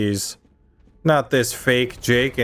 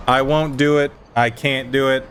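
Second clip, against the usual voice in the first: passionate insistence; 3 semitones higher than usual. Real, not acted. Insisting to his friends he won't accept the khakis, fired up. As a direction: dig in your heels on every line. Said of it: "You're so passionate".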